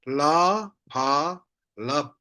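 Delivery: "La, pa" apart, then one-syllable "lap"; spelling out. Shown as a demonstration. Teacher spells for learners, "La, pa" blended into "lap". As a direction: sound out "La", "pa", close it as "lap". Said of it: "we say".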